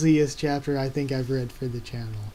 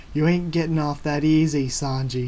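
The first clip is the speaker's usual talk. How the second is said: Luffy yelling at Sanji as the carriage leaves, loud; 2 semitones higher, 5 dB louder than usual. Acted. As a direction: shout it across the distance. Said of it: "he yells".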